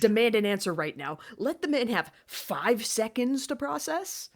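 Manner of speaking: high-pitched exasperated demand; indignant scolding. Acted. Viewer demanding time for a shocked husband, indignant.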